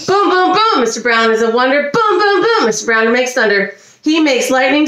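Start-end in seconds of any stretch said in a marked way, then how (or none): 0.1-0.8 booming thunder. Pretend. Thunder sound. 1.9-2.6 booming thunder. Pretend. Thunder sound.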